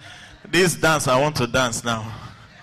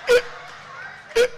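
block on "crocro" with stuck grunts; stammering teacher. Retold or imitated. Teacher tries crocodile once more, mock stammering. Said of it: "he's a conch stammerer".

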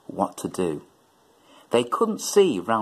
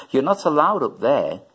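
lightly raised warning call; 5 semitones higher, 4 dB louder than usual. Acted. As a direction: call up to him, mildly. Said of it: "Dougie called up".

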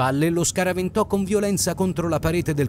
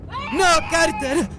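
despairing cry; 14 semitones higher, much slower than usual. A narrator's reading. Girl crying out as her dog is shot. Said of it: "si disperò Sara".

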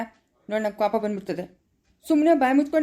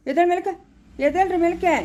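higher, insistent urging; urgent call; 6 semitones higher than usual. Acted. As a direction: get them up off the floor now. Brother urges kneeling sisters up. (ಒತ್ತಾಯದ ಕೂಗು)

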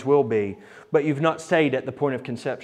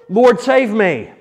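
loud, slow, pleading call; desperate cry for help; 5 semitones higher, 6 dB louder, slower than usual. Acted. Peter sinking in the waves, crying to Jesus in fear. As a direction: call out for rescue as you sink. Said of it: "he cried out".

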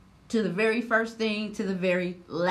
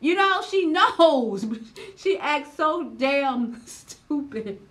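much louder, higher exasperated rant; venting, louder and higher, slowly; real frustration; 6 semitones higher, 7 dB louder, slower than usual. Real, not acted. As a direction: let the anger spill out, slow and loud. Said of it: "It was making me so mad".

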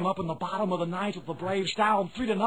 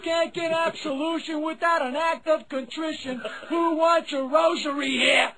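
stadium vendor call; 4 semitones higher than usual. Acted. Vendor hawking penance.

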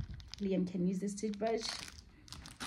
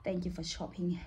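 whispering; 4 semitones lower, 6 dB quieter than usual. Shown as a demonstration. Reading card in whisper.

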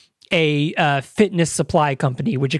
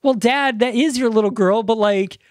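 higher-pitched, lightly voiced grown daughter; imitating exasperated daughter; 4 semitones higher than usual. Daughter answering dad about his little girl, lightly exasperated. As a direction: explain yourself to a scandalized parent.

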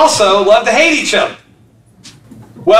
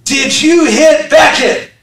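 stern dad; 5 semitones higher, 3 dB louder, slower than usual. Retold or imitated. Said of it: "and he says".

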